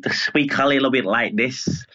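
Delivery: throaty Liverpool accent, saliva at the back. Shown as a demonstration. Guest showing how Liverpool people speak, saliva-throated Liverpool accent. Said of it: "a bit of saliva at the back of their throat".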